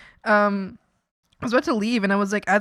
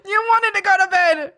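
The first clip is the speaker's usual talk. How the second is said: sassy told-you-so; 9 semitones higher, 7 dB louder than usual. Retold or imitated. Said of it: "I'm like".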